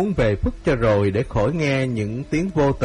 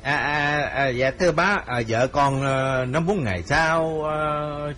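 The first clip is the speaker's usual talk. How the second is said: hesitant son-in-law; 4 semitones higher than usual. Acted. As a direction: fumble for excuses to the mother-in-law. Son-in-law stammers reply.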